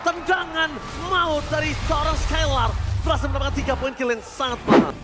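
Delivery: fast live play-by-play; fighting game announcer. Real, not acted. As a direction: call the action as it happens.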